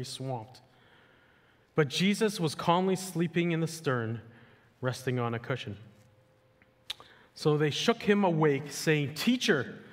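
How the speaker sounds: dramatic Bible reading, lively and expressive; scripture reading. Acted. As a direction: read the storm story to the church with feeling. Reads the Gospel passage aloud.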